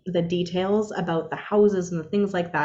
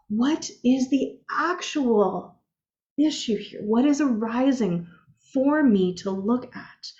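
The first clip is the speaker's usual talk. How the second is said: gentle inner inquiry; 3 semitones higher, slower than usual. Retold or imitated. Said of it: "into my heart space and I was like".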